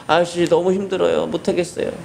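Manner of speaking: put-on high pleading child's voice; childlike whine to the neighbour; whining child. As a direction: beg like an exhausted kid.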